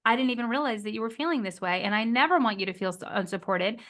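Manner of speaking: proper repair. Shown as a demonstration. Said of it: "which would be".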